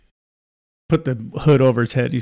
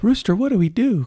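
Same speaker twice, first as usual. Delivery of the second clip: much higher-pitched pleading question; urgent young Maddie; 9 semitones higher than usual. Retold or imitated. Girl hiding in the hills asking what to do, high and urgent. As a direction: put on a girl's high voice. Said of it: "and Maddie says".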